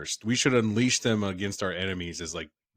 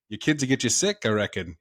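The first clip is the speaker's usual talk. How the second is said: put-on Australian accent; 2 semitones higher, 4 dB louder, faster than usual. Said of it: "I think it's Australian".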